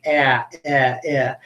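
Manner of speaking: clipped short "ah" repeated; 重复短促的"ah". Shown as a demonstration. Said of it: "think of your mouth going up".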